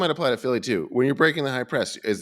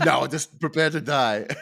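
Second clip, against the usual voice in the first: laughing mock villain line; hammy eighties movie villain. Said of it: "eighties movie villain".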